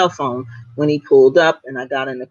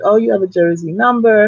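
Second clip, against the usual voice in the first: driver asking; 6 semitones higher, 5 dB louder than usual. Retold or imitated. Driver voiced in retold ride.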